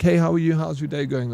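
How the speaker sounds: bright fake-friendly hello; put-on polite greeting. Shown as a demonstration. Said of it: "you put on a face and you're just like".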